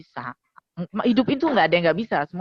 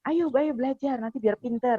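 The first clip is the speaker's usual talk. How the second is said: encouraging; 7 semitones higher than usual. Shown as a demonstration. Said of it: "selalu dalam bentuknya dorongan-dorongan positif".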